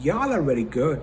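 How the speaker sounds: drawn-out American "Y'all are very good"; put-on American dialect with a rounded "good"; American English accent. Shown as a demonstration. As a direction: imitate American English, merging "You all" into "Y'all". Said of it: "American English में पता है कैसे बोलते हैं".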